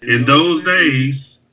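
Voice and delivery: slow, deliberate reread of "In those days"; solemn slowed "In those days". Shown as a demonstration. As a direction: drag out "In those days" for emphasis. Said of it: "sighs, rereads slowly".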